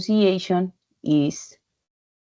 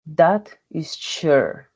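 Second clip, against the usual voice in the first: "That is sure" spoken slowly, each word apart; slow example sentence; slower than usual. Shown as a demonstration. Teacher reading an example sentence to learners, slow and careful. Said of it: "The vowels, the sounds".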